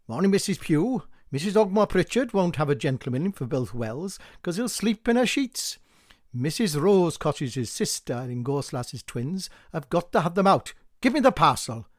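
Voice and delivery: brisk, eager village gossip; a chatty postman at the door; gossipy postman. Acted. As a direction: lean in and spill the news.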